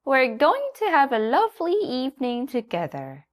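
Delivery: a bright, clucking hen; Nanny Hen. A narrator's reading. Hen greets the little donkey in a high voice.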